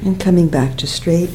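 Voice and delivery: calm guidance, softening toward the end, long pauses; guided meditation. Real, not acted. Teacher asking students to feel the breath in the back, quiet meditation voice.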